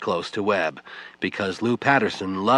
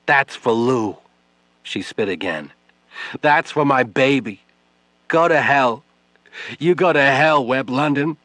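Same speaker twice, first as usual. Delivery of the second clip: loud and higher, biting each line; bitter fury; 5 semitones higher, 5 dB louder than usual. Acted. Widow spitting on Webb, cursing him. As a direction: curse him with every spit.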